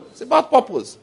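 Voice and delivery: purpose announced high, about stressed; preacher's triumphant answer; high emphatic answer. Shown as a demonstration. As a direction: proclaim it. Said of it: "It's about what?".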